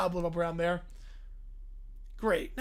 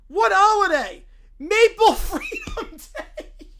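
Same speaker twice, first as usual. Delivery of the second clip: excited proclamation; 5 semitones higher, 7 dB louder, slower than usual. Acted. Proclaiming fake holiday.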